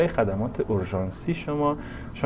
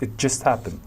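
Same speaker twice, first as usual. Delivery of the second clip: "just" picked out, "happened" falling away; stress on JUST; slower than usual. Shown as a demonstration. Teacher showing how recent it was, stress on "just". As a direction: lean on "just" and let "happened" drop. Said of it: "دقت کنید به استرس برای کلمهٔ just".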